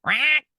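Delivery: high, loud duck quack. Pretend. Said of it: "Where's my duck voice?".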